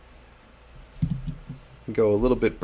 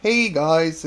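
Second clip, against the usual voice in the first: higher-pitched attempt at a hobby host's greeting; Neil; 7 semitones higher, 3 dB louder than usual. Streamer trying a requested YouTuber, high mock host greeting. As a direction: briefly try out another YouTuber's voice, pitched up. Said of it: "Do Neil from Real Terrain Hobbies".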